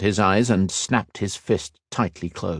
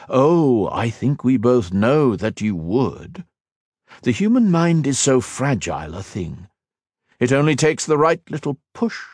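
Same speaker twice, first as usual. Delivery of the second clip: sneering villain; 4 semitones higher than usual. Acted. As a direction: savour every cold word. Shinzan taunts Ethan.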